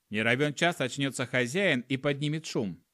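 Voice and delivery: ordinary delivery, nothing marked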